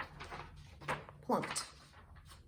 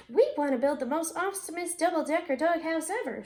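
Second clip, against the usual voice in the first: eager; 5 semitones higher, 3 dB louder, faster than usual. Acted. Drew eagerly tells shopkeeper.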